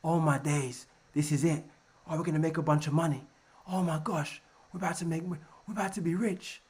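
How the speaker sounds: gushing over coming riches; excited retail trader; mock excited trader. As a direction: play the hyped-up trader. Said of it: "They get gassed".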